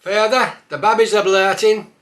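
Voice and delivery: loud high Black Country call; Black Country accent, loud. Acted. Dialect phrase, calling father.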